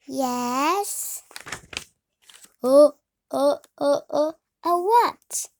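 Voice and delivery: loud straining stammer before a sneeze; about to sneeze. Acted. Gerald the elephant stammering as a sneeze builds, loud. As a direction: fight back a sneeze that keeps building.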